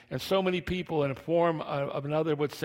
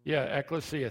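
gappy lisp, teeth gone; missing front teeth. Real, not acted. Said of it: "My teeth are missing".

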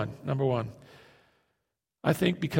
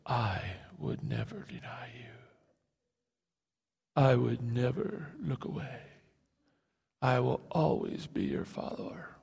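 whispered, mocking Peter's boast; 3 semitones lower, 8 dB quieter than usual. Peter vowing to Jesus, mocking whisper. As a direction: breathe it out as a foolish vow. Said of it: "in that stupid kind of way".

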